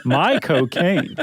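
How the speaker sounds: slow, stiff attempt at a Cockney accent; robotic, drawn-out try at Cockney vowels; Michael Caine impression. Shown as a demonstration. Co-host retrying the accent while being recorded, stilted Cockney impression. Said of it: "not like a robot Josh".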